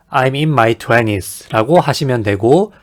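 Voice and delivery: normal talking voice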